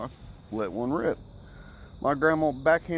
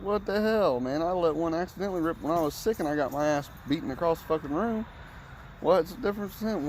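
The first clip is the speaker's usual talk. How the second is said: pitched way up, indignant and disbelieving; outraged protest; 4 semitones higher than usual. Retold or imitated. Retelling his protest to grandma, high and indignant. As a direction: protest the unfairness, voice climbing high.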